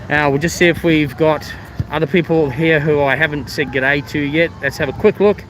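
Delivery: speaking through a face mask; muffled, mask over mouth. Real, not acted. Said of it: "Sorry if I'm a bit muffled".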